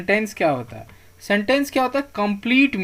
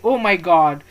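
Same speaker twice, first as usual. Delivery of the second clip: mock exclamations, louder than the talk; demonstrated sudden feeling; 5 dB louder, much slower than usual. Shown as a demonstration. Teacher gives examples of interjections, mock sudden exclamation. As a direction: act out a sudden outburst as an example. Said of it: "इस तरह के जो sudden feeling".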